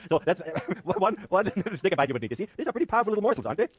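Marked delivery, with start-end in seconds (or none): 0.1-2.3 talking through a mouthful of candy; chewing while speaking, muffled words; mouth full. Real, not acted. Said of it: "never talk with your mouth full".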